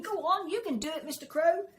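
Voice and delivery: loud, high cheer; cheering shout. A narrator's reading. Woodland animals cheer on the crow, loud shout. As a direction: cheer him up the tree. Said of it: "they were shouting".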